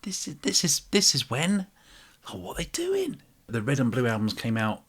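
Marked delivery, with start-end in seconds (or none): 0.0-3.2 high incredulous fan voice; exaggerated puzzled fan imitation, pitching up; imitating confused fans. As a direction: mimic baffled fans. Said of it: "people started going".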